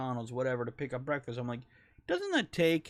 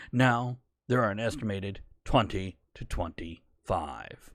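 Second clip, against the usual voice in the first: lightly put-on newsreader delivery; newscast voice; 2 semitones lower, 3 dB louder than usual. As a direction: read it like a TV news anchor. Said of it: "my newscast voice".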